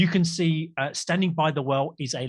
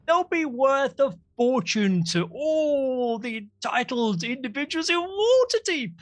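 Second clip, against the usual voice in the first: turtle farmer, Disney princess voice; 7 semitones higher than usual. Acted. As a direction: sing it out like a cartoon princess farmer. Turtle character speaks.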